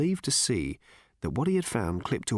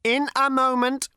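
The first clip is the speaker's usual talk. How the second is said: patient robot; 13 semitones higher, 5 dB louder than usual. A narrator's reading. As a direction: repeat it with endless machine patience. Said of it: "repeated the robot patiently".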